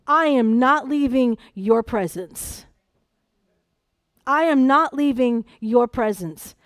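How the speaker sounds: slow, deliberate refusal to budge; tenacious. Acted. Preacher voicing a mother refusing to leave the prophet, tenacious. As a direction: plant each word with stubborn resolve. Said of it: "This is the same tenacity".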